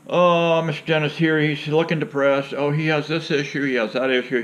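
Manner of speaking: a hint of a chirpy doctor dictating; mocking the doctor. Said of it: "he looks at me and he says".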